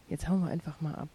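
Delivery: "Jetzt hauen wir einfach mal ab" said loudly in anger; "hauen" punched hard and loud; angry. Acted. Furious at mother, door slam.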